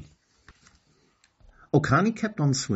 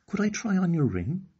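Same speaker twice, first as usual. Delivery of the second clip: voicing Okani; 10 semitones higher than usual. Okani asks for the ring.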